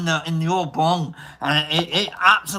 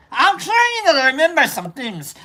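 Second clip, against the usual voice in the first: higher, accent slipping toward Idi Amin; 5 semitones higher than usual. Real, not acted. Streamer attempting an accent, accidentally sounding like Idi Amin. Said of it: "like Idi Amin right there".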